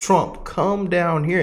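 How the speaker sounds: high, slow imitated begging; hammed-up high-pitched begging to Trump; begging plea. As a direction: plead way up high, dragging the words out. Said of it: "they're begging and pleading".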